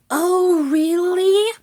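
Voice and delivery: high, loud, indignant question, rising; squeaky outrage. A narrator's reading. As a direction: gasp it as an affronted rat. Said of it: "Rat gasped indignantly".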